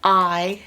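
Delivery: I said as "ih"; short vowel I, as in pig; short I sound. Shown as a demonstration. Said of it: "So I becomes I".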